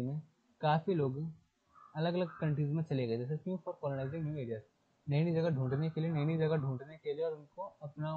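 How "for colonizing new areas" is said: slow textbook reading. Shown as a demonstration. Teacher reading the English passage aloud to students, slowly. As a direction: read the passage word by word, very slowly.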